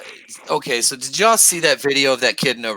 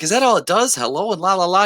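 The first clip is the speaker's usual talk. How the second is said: mock George; 6 semitones higher than usual. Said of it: "George is like".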